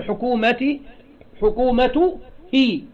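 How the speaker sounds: حكومته هي sounded out as "hukumatu... hii"; hypothetical kasra form. Shown as a demonstration. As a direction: demonstrate the i ending on حكومتي and هي. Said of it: "لا يمكن أن ينطق هكذا". (نطق حكومتي و هي بالكسر للتوضيح)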